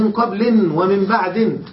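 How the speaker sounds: slow qablin, ba'din for قبل and بعد; tanween endings. Shown as a demonstration. Teacher contrasting readings, قبل and بعد ending in -in. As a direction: draw out قبل and بعد with final -in. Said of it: "فقد حذف المضاف إليه ولم ينو شيئا".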